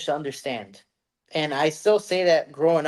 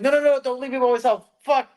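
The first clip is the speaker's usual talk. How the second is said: high, loud, fast begging; hammed-up desperate plea; mock panicked plea; 10 semitones higher, 6 dB louder than usual. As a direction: plead in comic panic, rushing it. Begs girlfriend not to leave.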